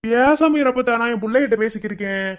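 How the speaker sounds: loud, high annoyed retort; irritated retort. Acted. Grandson loudly brushing off his grandmother's question. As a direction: push back at her, loud and sharp.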